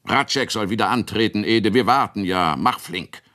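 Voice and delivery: zügig, etwas drängend; ungeduldiger Ruf. Acted. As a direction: wir warten, Ede, mach schon. Bauern rufen ungeduldig nach Ratschek. (Bauern drängen den Jungen, ungeduldig)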